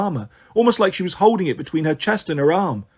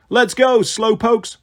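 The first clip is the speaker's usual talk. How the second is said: higher, louder cheerful rallying call; grinning; 5 semitones higher, 3 dB louder, slower than usual. A narrator's reading. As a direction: call to friends with a grin. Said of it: "grinning down at her friends".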